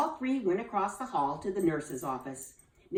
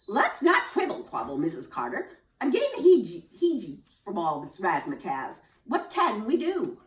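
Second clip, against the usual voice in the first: shudder through it; spooked teacher; 2 semitones higher, 5 dB louder than usual. Acted. Missus Bell asks what to do, nervously laughing.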